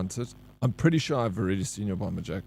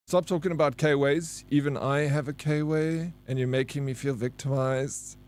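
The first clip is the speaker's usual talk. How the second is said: higher-pitched put-on grievance; mock-victimized complaint; 4 semitones higher than usual. Streamer voicing a viewer upset over K-Way talk, mock-victimized. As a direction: read it out as a playful, higher-pitched whinge.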